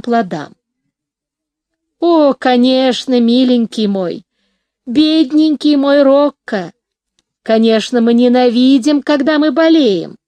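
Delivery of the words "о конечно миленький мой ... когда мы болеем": put-on soothing, like to a child. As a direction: coo to him like a sick child. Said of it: "успокаивая его, как ребёнка".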